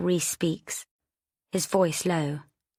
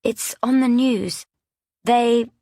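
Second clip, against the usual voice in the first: louder, higher, pressing the words "It's on the news"; insistent repeat; 6 semitones higher, 5 dB louder, slower than usual. A narrator's reading. Rhys repeating the news more insistently to Chrissy. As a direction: push it harder the second time. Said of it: "Rhys repeats himself".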